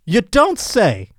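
high, slow, hammed-up gasp of shock; mock surprise. Joking about being fooled, hammy slow surprise. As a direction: play it as an old-fashioned overdone astonishment. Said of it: "I would have been like".

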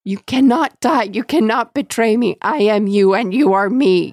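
loud, high desperate spirit wail; seething shrieking spirit. Acted. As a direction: plead like a dying evil spirit. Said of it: "the spirit wailed".

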